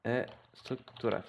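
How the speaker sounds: playful mock Spanish accent, slowed down; joking Spanish pronunciation, drawn out. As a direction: say it slowly with a put-on Spanish accent. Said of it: "vous profitez de mon bel accent espagnol".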